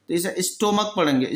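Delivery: स्टोमक ending in a hard k sound; stomach with hard k. Shown as a demonstration. Teacher correcting students who say stomach with ch. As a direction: say स्टोमक with a k, not ch. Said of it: "स्टोमच नहीं पढ़ना".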